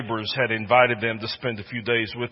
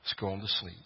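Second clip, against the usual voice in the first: tender father; 3 semitones lower, 5 dB quieter than usual. Acted. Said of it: "that sweet daddy said".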